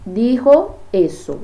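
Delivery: slow, loud "dijo eso"; a teacher setting "dijo eso" against "hablé"; emphasized dijo. Shown as a demonstration. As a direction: stretch "dijo eso" out for the class. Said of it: "então, decir".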